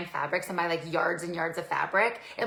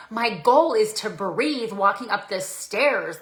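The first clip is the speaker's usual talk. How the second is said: slow, louder emphatic comeback; emphatic retort; 3 semitones higher, 6 dB louder, slower than usual. Retold or imitated. Client tells trainer her real goal, emphatic. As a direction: answer bluntly, dragging it out. Blunt reply to trainer's question.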